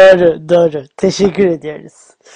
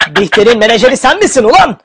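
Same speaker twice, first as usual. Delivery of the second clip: mock shout; 5 semitones higher, 11 dB louder than usual. Host mock-yells at caller.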